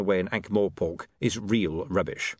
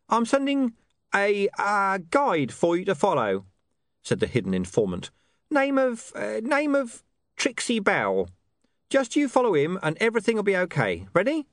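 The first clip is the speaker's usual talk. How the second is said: shady informant; 10 semitones higher than usual. A narrator's reading. Hidden informant Deep Bone speaks.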